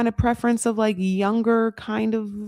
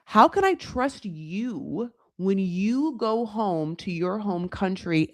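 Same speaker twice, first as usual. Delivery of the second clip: mock slow quote; 4 dB quieter, slower than usual. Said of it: "That is what he answers her".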